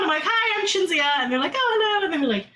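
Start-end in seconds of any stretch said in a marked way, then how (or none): 0.3-1.2 high-pitched, eager hello; re-enacted fannish greeting; excited introduction. Acting out introduction to band. 1.6-2.0 high-pitched mock-delighted hello; imitating an effusive welcome; effusive greeting. Band's greeting acted out.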